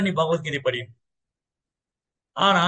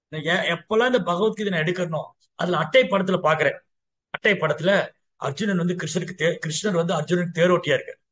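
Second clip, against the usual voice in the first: ordinary talk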